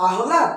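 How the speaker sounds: আহ্লাদ with h before l, "ahla"; rejected pronunciation. Shown as a demonstration. Teacher testing a wrong form, আহ্লাদ as ah-la. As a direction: ask আহ্লাদ as ah-la, as if doubting it. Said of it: "না".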